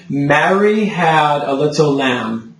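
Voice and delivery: slow model sentence with open Mary and lamb; deliberate, rounded choir diction; full singer's vowels. Shown as a demonstration. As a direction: shape each vowel tall, unhurried. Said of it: "say the sentence to me".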